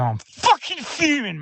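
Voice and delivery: fuming fan letting rip. Real, not acted. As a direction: vent genuine fury at the result. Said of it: "Sorry, Nick, I'm fuming".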